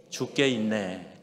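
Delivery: slow, leisurely 죽게 있네 with space between 죽게 and 있네; slow and relaxed. Shown as a demonstration. 죽게 있네 said slowly so it sounds like 죽게 있네 not 죽겠네. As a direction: stretch 죽게 있네 out calmly. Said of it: "하지 마시고".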